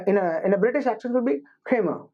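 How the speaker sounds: Kramer said as two syllables with no R sounds, KRAY-muh; non-rhotic British Kramer, both R's dropped. Shown as a demonstration. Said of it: "the right way to say it".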